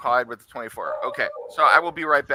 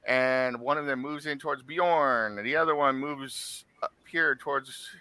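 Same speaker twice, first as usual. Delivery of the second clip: measured scene-setting read; game master narration; 3 dB louder than usual. A narrator's reading. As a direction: set the enemies' moves deliberately. DM narrates giants' turn.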